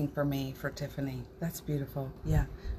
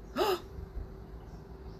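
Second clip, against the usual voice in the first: surprised gasp; 12 semitones higher, 8 dB quieter than usual. Real, not acted. Sudden surprise.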